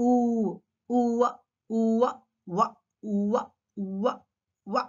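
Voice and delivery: "ఊవ" as rounded oo gliding into wa; W sound drill. Shown as a demonstration. Teacher drilling the W sound, rounded "ఊవ". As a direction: round the lips on "ఊ", then open into "వ". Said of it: "W పలికేటప్పుడు ఊవ అని అనాలి sound".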